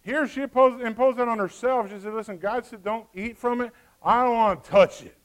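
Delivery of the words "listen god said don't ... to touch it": dedicated Eve. Acted. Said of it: "She sounds like she's dedicated here".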